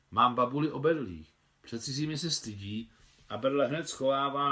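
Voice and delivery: put-on a boy earnestly pleading for a sick girl; a hint of a boy speaking up for his neighbour. Boy tells of legless granny.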